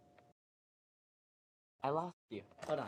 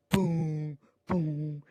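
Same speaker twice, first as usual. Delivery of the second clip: higher, drawn-out booms; imitated booms; 3 semitones higher than usual. Evil guys appearing behind him, imitated booms. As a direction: voice each boom as a stretched sound effect.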